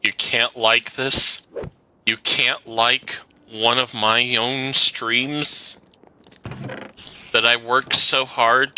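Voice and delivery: guilt-trip the viewers theatrically; hammed-up wounded streamer; mock hurt pleading. Real, not acted.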